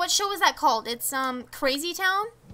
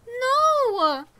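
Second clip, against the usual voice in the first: loud protest; 9 semitones higher, 3 dB louder than usual. Real, not acted. Protesting villager's diet talk.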